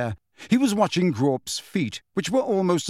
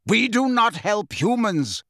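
slow, high, emphatic snarl; 7 semitones higher than usual. A narrator's reading. Centaur holding Harry refusing help, snarling. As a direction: snarl each word slowly. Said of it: "snarled the centaur holding Harry".

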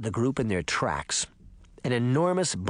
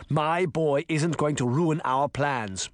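slow, firm principal; understated, defiant growl; growled warning; slower than usual. Acted. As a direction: insist slowly, with a touch of anger. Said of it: "the principal growled".

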